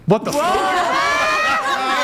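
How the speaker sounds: loud, drawn-out shocked cry; shocked outburst. Real, not acted. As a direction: blurt it out in disbelief. Shocked at the AI picture.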